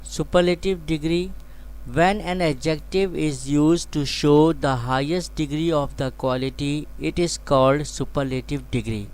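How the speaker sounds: slow, measured reading of a definition; slow dictation. Shown as a demonstration. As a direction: dictate it so students can copy.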